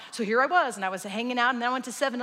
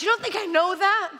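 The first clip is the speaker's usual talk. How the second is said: high, loud retort; screaming match; 7 semitones higher, 4 dB louder than usual. Acted. Stranger snapping back at Norm, screaming. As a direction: throw the question back loudly. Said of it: "they begin a screaming match".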